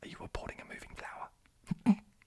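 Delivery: whispering in a New Zealand accent. Trying a line again after doubting the delivery; whispered Kiwi accent. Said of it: "I also don't know how to whisper in a Kiwi accent".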